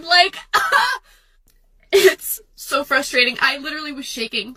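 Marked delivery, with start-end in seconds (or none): 0.0-3.4 sob-laugh breaking the words; tearful laugh; crying. Real, not acted. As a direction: cry it out, voice breaking. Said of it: "fake cry into TikTok".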